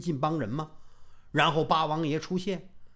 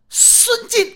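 calling out; 7 dB louder than usual. Acted. Rival calls out Sun Jin.

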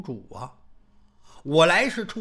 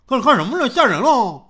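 frightened; 4 semitones higher, 9 dB louder than usual. Acted. Xiao Peng frightened by the woman.

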